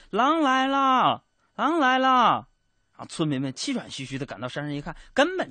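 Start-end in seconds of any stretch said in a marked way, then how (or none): 0.1-2.5 slow, loud and much higher call; shouting. Retold or imitated. Shepherd boy calling to the villagers, slow loud shout. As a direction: yell it slowly down the hill. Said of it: "他向山下大声喊".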